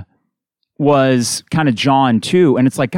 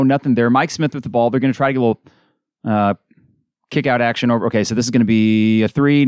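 brisk radio game call; steady basketball announcer rhythm; live play-by-play. Real, not acted. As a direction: call the action as it happens.

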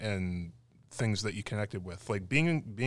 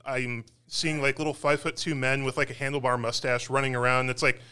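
put-on Scottish accent; 7 semitones higher, 11 dB louder than usual. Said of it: "with my really bad Scottish accent".

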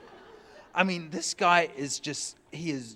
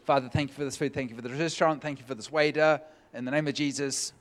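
quick prayer; faster than usual. Shown as a demonstration. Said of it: "a quick prayer 'cause I wanna eat".

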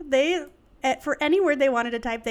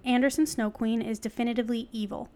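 measured, articulate reading; article read-aloud. Real, not acted. Host reading an article to co-host, read-aloud. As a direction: read it out like a written essay.

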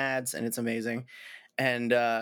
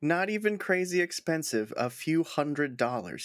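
teasing repeat of his words; mock echo; 3 semitones higher than usual. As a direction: echo it back with a smirk. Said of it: "he says".

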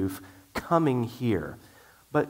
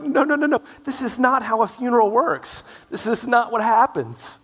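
loud, high-pitched frantic protest; hammed-up panic, voice shooting up; alarmed teacher; 11 semitones higher, 7 dB louder than usual. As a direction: cry out urgently to stop a class panicking. Retold alarmed teacher calming terrified class.

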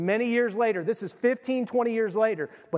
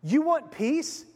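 stern rebuke; 5 semitones higher than usual. Acted. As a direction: scold him like an angry prophet. Preacher voicing Jehu's rebuke.

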